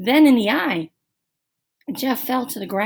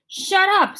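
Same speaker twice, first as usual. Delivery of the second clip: annoyed; 9 semitones higher, 3 dB louder than usual. A narrator's reading. Jeff annoyed.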